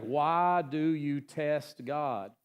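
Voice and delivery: each word drawn out slowly, rebuking; slowly spelled-out reproach from Moses; slow Moses rebuke. Retold or imitated. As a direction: Moses lingering on every word of the question. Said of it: "he's like".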